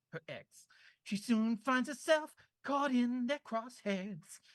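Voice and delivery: put-on valley girl. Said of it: "Can you do it in a Valley Girl accent".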